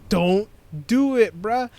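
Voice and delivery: slow, drawn-out mock plea; acted warning. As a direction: stretch out a warning to a friend. Acts out pleading warning.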